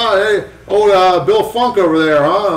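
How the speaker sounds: name-drop like an insider; imitating Mike Malone. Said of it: "He's like".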